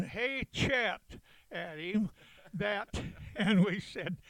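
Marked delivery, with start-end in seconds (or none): 0.0-1.0 retold hollering. Marines hailing the admiral on the gangway, mild retold holler. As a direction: imitate a cheeky call-out at half volume. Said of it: "we started hollering".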